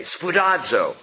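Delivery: "Spoudazo" savoured as spoo-DAHD-zo, syllable by syllable; enjoy saying "Spoudazo" spoo-DAHD-zo; Greek word said out. Shown as a demonstration. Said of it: "The Greek words are a lot of fun to, to say".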